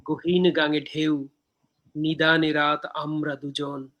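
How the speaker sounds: slow, measured verse with pauses between lines; poem recitation. Acted. Poet reciting own poem from Dehokabyo to viewers, measured recitation.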